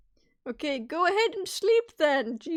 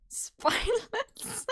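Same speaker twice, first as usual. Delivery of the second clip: contemptuous; 8 semitones higher, much slower than usual. Real, not acted. Mocking muted friend.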